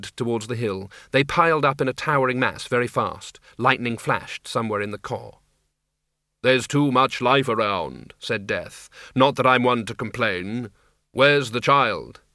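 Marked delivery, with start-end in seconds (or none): 6.4-12.2 slow, measured voice of Death; a hint of a grim, slow reaper. Death speaks.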